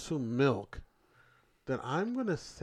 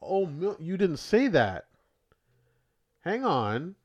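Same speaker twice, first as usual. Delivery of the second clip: higher, louder protest of a trick; indignant surprise; 7 semitones higher, 7 dB louder than usual. Real, not acted. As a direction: object loudly, caught out. Caught out by a hidden rule.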